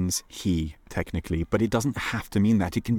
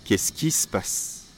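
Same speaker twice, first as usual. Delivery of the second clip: hushed, slow question; whispered; slower than usual. Shown as a demonstration. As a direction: whisper it worriedly. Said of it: "depending on how you use your voice".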